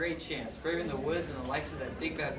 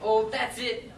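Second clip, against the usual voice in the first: much higher, louder gushing call; gushing excitement; 9 semitones higher, 11 dB louder, much slower than usual. Acted. Prince overcome at the happy ending, high gushing call. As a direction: squeal for a group hug. Prince calls a group hug.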